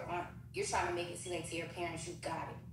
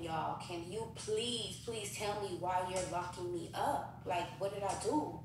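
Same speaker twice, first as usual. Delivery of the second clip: begging; slower than usual. Retold or imitated. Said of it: "begging him".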